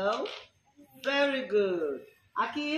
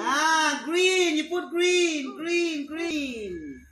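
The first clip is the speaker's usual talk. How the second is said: higher and louder, delighted; excited praise; 4 semitones higher, 3 dB louder, much slower than usual. Real, not acted. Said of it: "excited praise to child".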